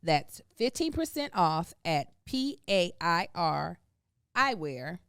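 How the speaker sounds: upbeat sponsor read, slowing on the web address. Acted. Host reading the sponsor ad, upbeat. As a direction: sell the glasses to the podcast listeners.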